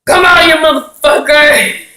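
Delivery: playfully yelling at a noise in the empty house; mock threat. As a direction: bark it at the door like a tough guy. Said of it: "Be like".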